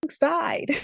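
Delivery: high-pitched mock yell; imitated scream. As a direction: split the word into a drawn-out holler.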